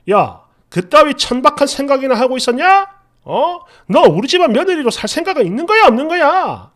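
mildly angry scolding, held back from shouting; retold suppressed anger. Husband challenging wife over his father, mild suppressed anger. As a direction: confront her with anger barely let out. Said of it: "화를 억지로 누르면서".

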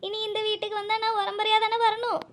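weepy bride confessing her sorrow; acted plaintive crying voice; tearful. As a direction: pour out the worry of leaving home, close to sobbing. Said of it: "இதுக்கா இப்படி ஏங்கல் எடுத்து அழுகுற".

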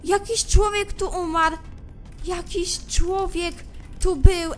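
ordinary talk, nothing marked

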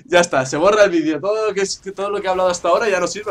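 loud, fast frustrated rant; exasperated outburst. Real, not acted. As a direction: vent loudly after losing. Frustrated after dying. (queja exasperada y rápida)

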